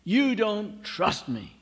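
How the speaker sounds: a mild mock flare of resentment; resentful outburst. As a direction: push the words out, wounded. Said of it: "something rises up within me".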